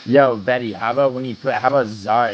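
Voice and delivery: loud call across the room. Real, not acted. Calling to Betty across the room, loud. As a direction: call out to grab her attention.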